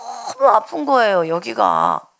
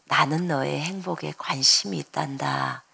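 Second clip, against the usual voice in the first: gentle soft voice; 8 semitones lower, 7 dB quieter than usual. Retold or imitated. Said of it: "이런 소리가 들려요".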